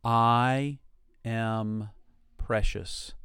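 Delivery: each word set apart, slow; paced affirmation. Shown as a demonstration. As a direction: let every word land alone. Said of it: "Say that to yourself".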